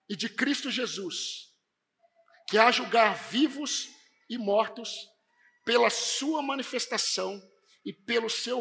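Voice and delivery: solemn charge in measured phrases with weighty pauses; Paulo, emphatic. Acted. Preacher reading Paul's charge to Timothy, solemnly emphatic. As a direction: read it as a grave, emphatic charge. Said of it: "ele é tão enfático com Timóteo e ele diz assim".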